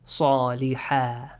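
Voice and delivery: صالحا read slowly with heavy ṣ; teacher models the word slowly; careful Quran reading. Shown as a demonstration. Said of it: "But how do you read it".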